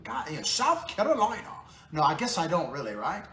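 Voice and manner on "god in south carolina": "South Carolina" in a light put-on Southern accent; half-hearted Southern accent on "South Carolina"; mock Southern accent. Vlogger trying a Southern accent for South Carolina viewers. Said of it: "do I need to fake a Southern accent?".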